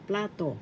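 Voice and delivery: plato accented on the first syllable; stress on PLA. Shown as a demonstration. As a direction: lean on the start of plato: PLA-to. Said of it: "The accent is in the first syllable".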